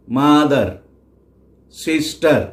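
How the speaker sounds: মাদার as মা-দার, সিস্টার as সিস-টার; syllable by syllable. Shown as a demonstration. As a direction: break মাদার and সিস্টার into two beats each. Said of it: "কেটে কেটে উচ্চারণ করি". (মাদার, সিস্টার দুই ভাগে কেটে কেটে)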